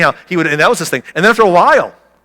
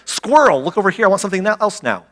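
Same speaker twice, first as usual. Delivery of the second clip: distracted kid; 5 semitones higher than usual.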